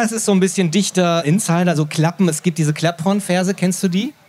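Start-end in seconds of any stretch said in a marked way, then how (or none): none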